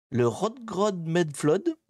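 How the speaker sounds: put-on slow, careful stab at a Danish accent on Rodgrod Medflod; apologetic mock Danish accent; Danish accent attempt. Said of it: "pardonnez mon accent".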